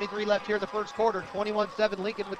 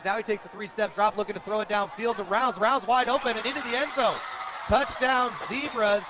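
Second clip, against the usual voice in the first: excited touchdown call. Real, not acted. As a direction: build to the end zone and announce the touchdown. Calling a touchdown live.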